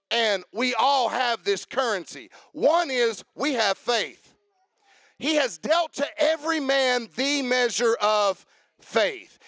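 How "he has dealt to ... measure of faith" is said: rising pulpit declaration; fervent preaching. Acted. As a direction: preach it out to the room. Preaching at full force.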